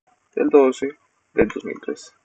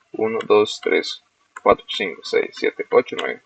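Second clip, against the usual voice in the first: counting under breath; 5 dB quieter than usual. Real, not acted. Counts digits under his breath.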